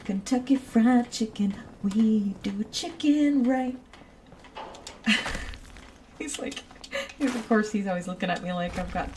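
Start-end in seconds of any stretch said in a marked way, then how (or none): 0.0-3.8 slogan. Retold or imitated. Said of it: "old K F C commercial".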